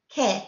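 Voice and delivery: "que" said as "ke", with no W glide; plain K sound. Shown as a demonstration. Teacher modelling Q U for students, "que" as "ke". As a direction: say "que" with a hard K. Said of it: "Q U makes a K sound".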